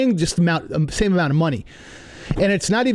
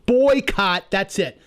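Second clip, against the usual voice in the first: retold scream; 2 semitones higher, much slower than usual. Walking out on the deli counter, a mild mock yell. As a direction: pitch it up like a yell without real volume. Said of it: "I screamed it".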